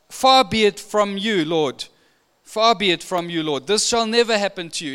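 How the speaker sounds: a friend talking Jesus out of it; earnest protest; pleading rebuke. Retold or imitated. Peter rebukes Jesus, acted out.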